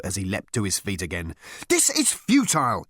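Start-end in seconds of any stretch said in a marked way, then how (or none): 1.7-2.9 high-pitched exasperated outburst; exclaiming. A narrator's reading. Ford interrupting the committee, exclaiming. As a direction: burst out in protest. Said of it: "he exclaimed".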